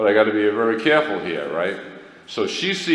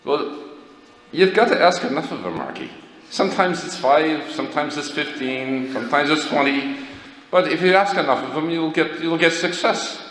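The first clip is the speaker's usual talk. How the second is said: grandfather's voice; 8 semitones higher than usual. Retold or imitated. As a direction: play the sly old grandpa sharing his secret.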